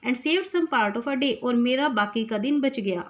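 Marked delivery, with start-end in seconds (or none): 0.1-1.3 slow poem reading. Shown as a demonstration. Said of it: "मेरा mood जो sad था वो कैसा हो गया".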